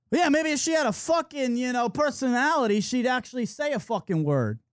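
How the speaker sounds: imitated needling complaint; calling her out. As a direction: lightly act a drunk friend taunting someone nearby. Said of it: "Anastasia kept calling out the girl".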